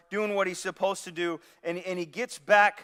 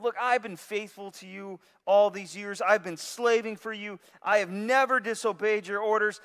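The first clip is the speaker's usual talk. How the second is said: resentful complaint; 3 semitones higher, 3 dB louder than usual. Retold or imitated. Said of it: "He's upset. He's angry".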